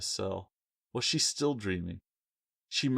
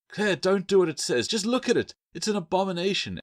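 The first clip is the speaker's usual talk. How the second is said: higher, louder frightened warning, rushing at the end; fearful warning; 11 semitones higher, 5 dB louder than usual. A narrator's reading. Gecko Echo warning Claire about the statue, fearful. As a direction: warn her in fear. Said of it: "Echo warned".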